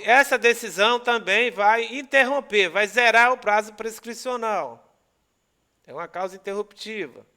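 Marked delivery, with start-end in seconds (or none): 0.0-4.8 louder, punching the conclusion; emphatic. Real, not acted. Teacher telling students the decision resets the deadline, louder. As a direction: drive the conclusion home.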